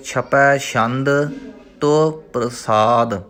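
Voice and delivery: drawn out, stretched syllables; slow recitation. Shown as a demonstration. Teacher reciting Gurbani for students, slow and measured. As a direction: chant the word slowly and evenly.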